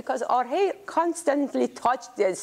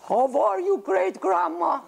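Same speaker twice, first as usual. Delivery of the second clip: put-on child voice; 5 semitones higher than usual. Child greeting great-grandma.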